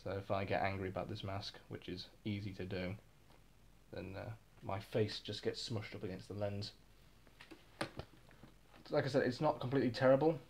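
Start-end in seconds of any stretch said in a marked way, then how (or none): 0.0-6.7 talking from inside a gas mask; muffled, as if behind a mask lens; muffled through gas mask. Real, not acted. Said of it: "my brow pushes up against the visor".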